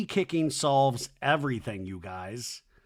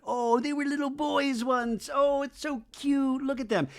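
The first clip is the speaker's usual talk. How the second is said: mock gushing; 13 semitones higher than usual. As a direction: swoon over them in exaggerated cuteness. Women swooning over cute men.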